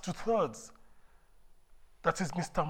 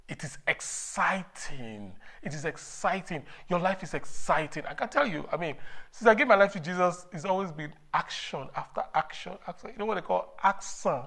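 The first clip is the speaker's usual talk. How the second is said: fervent new convert; 2 semitones higher than usual. Real, not acted. Retells own life since conversion.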